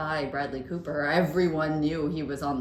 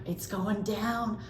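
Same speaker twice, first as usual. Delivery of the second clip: mock doom; 7 semitones higher than usual. Retold doom-teasing of anxious friend.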